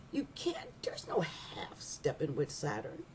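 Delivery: slow whispered warning; a slow, low whisper. Real, not acted. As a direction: lean in and breathe it like a secret. Confiding point about Saturn.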